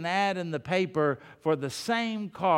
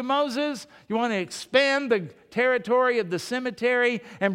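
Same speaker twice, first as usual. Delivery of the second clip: angry complaining crowd; 3 semitones higher than usual. Acted. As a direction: berate the leader who brought you here. Israelites turn on Moses.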